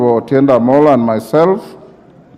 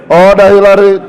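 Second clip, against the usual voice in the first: shouting order order; 4 semitones higher, 4 dB louder than usual. Real, not acted. Speaker calling member to order.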